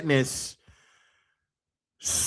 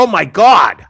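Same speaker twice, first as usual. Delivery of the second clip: louder, hammed-up panicked exclamations; mock panic; 4 semitones higher, 8 dB louder than usual. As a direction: play it like a witness freaking out. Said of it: "They don't go".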